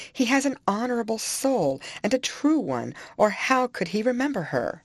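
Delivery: a high, wounded lament; Isabella, alone with Nelly, defends Heathcliff; tearful lament. Acted. Distraught, pitched-high lament. Isabella sobbing after Catherine leaves.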